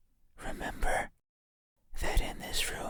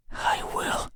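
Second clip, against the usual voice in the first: whispered shout. Acted. Creature takes control.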